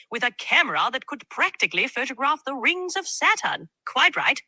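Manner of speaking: lightly British, chirpy gadget talk; a hint of a British accent, jolly and keen; British tech enthusiast. AI asked for a British impression, light British accent. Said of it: "Can you do a British impersonation of, uh, a tech enthusiast?".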